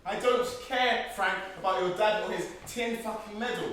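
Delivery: angry shout. Acted. Prisoner yells at his captor about the medal, furious. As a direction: finally blow up at your captor.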